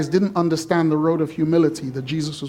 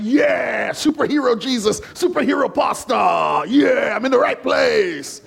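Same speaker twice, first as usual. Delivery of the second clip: excited churchgoer; 3 semitones higher than usual. Retold or imitated. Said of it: "you're like".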